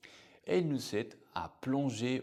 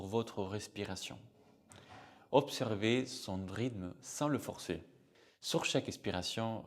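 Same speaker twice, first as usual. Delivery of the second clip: measured guided-visualization voice with long pauses; guided meditation. Shown as a demonstration. Music therapist leading listeners through a short musical imagery exercise, guided meditation. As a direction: guide listeners inward, phrase by phrase, leaving space.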